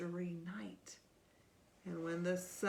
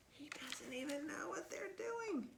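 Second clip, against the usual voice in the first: whispering; 6 semitones higher, 8 dB quieter than usual. Real, not acted. Aside while reading.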